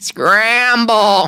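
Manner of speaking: very high-pitched character voice. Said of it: "Just do the voice one more time".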